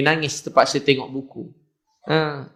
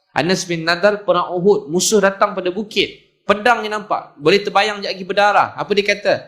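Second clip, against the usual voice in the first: raised-pitch, urgent battle storytelling; fired-up preaching; 5 semitones higher than usual. Real, not acted. Preacher recounts Anas at Uhud to congregation, fired-up preaching. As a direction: make the congregation see the battlefield.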